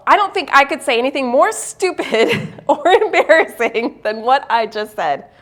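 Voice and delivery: laughing at herself, then settling; half laugh at her own blunder; self-mocking laugh. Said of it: "I said to myself".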